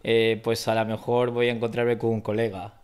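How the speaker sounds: everyday Spanish sentence in the local Madrid accent; Spain Spanish accent. Shown as a demonstration. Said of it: "Can you sh-, can you try or no?".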